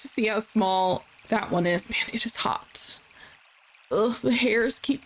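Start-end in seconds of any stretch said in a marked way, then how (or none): 1.9-3.0 breathy half-whisper. Real, not acted. Complains about the heat.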